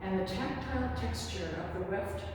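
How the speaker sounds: expressive verse with long, listening pauses; poem reading. Acted. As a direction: recite it, letting each image stand apart. Reads own poem aloud.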